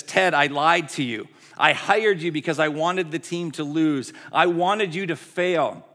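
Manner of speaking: loud, forceful confession, pitch slightly up; urgent confession. Retold or imitated. Team owner confessing sabotage to her coach, loud and urgent. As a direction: blurt out each admission forcefully. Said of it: "busts into his office in this moment of confession".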